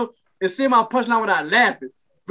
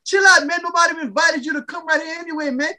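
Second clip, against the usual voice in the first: irritated scolding; 5 semitones higher than usual. Retold or imitated. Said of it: "I'm like".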